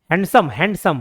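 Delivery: "हैंडसम" parted as हैंड-सम each time; two separate syllables. Shown as a demonstration. Teacher contrasting with short words, "हैंडसम" in two parts. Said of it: "दो बार structure change हो रहा है".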